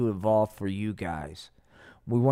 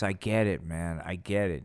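low, soft, beaten I get it; defeated mumble; 6 semitones lower, 6 dB quieter than usual. Acted. Nixon giving in to the aliens, soft defeated mumble. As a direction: mumble it like a broken man. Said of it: "Dick Nixon goes".

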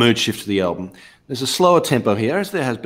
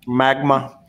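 Doctor Evil voice; 3 semitones higher than usual. Pretend. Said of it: "I put my finger to the edge of my mouth".

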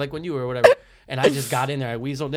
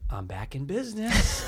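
sly delight. Retold or imitated. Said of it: "So I go".

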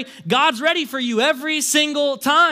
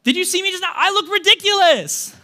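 amused father; 8 semitones higher, 4 dB louder than usual. Retold or imitated. Father voiced, laughing at himself.

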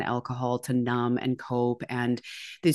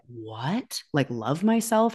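incredulous; slower than usual. Retold or imitated. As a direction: retell the shock of hearing it. Baffled reaction to inner voice.

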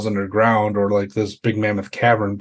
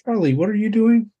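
much higher, alarmed call; 11 semitones higher, faster than usual. Acted. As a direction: cry out the name in alarm. Calling after friend.

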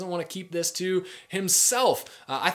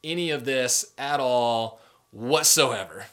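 exasperated. Retold or imitated. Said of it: "Nathanael just loses it".

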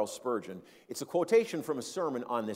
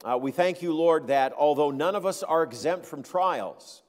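steady, reverent prayer voice; closing prayer. Acted. Pastor prays for the congregation, reverent and steady. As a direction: lead the church in prayer.

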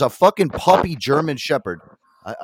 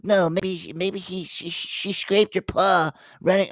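mock parts-guy voice, pitched up; imitated parts guy; 7 semitones higher, slower than usual. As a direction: mimic a doubtful coworker, slowing toward the end. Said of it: "one of the parts guys come over".

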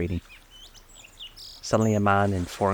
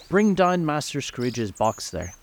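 high, slow, drawn-out command; terrible cry; 6 semitones higher, slower than usual. A narrator's reading. Schoolmaster calling from the hall, terrible commanding cry. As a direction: call the order out slowly, pitched up. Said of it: "A terrible voice in the hall cried".

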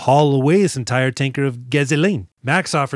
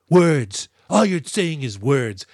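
mock scornful Rebecca; slower than usual. Host mimicking Rebecca throwing it in Papa Gallo's face, mock scorn. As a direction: spit out the word Words. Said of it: "She goes".

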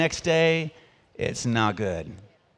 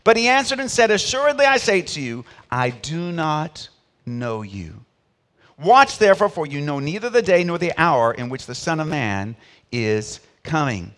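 solemn, measured Bible reading; scripture reading; 2 semitones lower than usual. Acted. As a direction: read the verse with weight, slowing on the last line. Reads scripture aloud.

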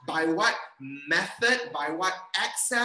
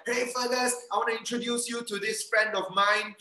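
higher, friendly introduction; eager party greeting; 5 semitones higher than usual. Acted. Acted friend making introductions at party.

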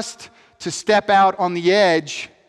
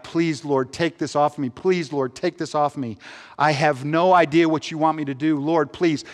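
begging prayer; 4 semitones lower than usual. Retold or imitated. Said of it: "I'd beg God".

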